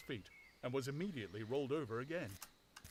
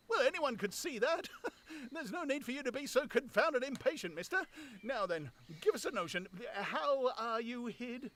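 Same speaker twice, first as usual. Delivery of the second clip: high, loud, cheeky tramp voice; a tramp mocking an unseen stranger; high, louder cocky tramp; scoffing tramp; 12 semitones higher, 4 dB louder than usual. Tramp voice held.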